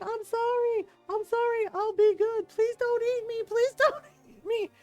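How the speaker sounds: high, loud mock pleading; retold crying plea. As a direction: beg like a terrified kid, hammed up. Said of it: "He stops crying for a minute".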